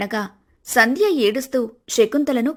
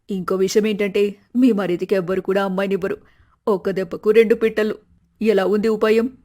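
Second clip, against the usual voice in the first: scheming mother; 3 semitones lower than usual. Acted.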